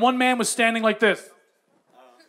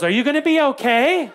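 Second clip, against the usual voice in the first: concerned wife; 2 semitones higher than usual. Retold or imitated. Wife checks on her drugged husband, concerned questioning. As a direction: voice swooping up into a question.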